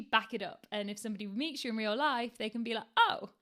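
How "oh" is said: high, loud "oh" of surprise; surprised realisation. Acted. Someone meeting the writer in real life, surprised. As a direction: pipe up as if pleasantly caught out. Imagined listener reacts on meeting you.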